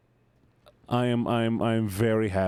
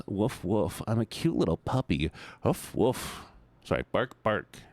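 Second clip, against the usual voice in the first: mock sleepy puppy; 3 semitones lower than usual. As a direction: play a drowsy little puppy. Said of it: "curls up and".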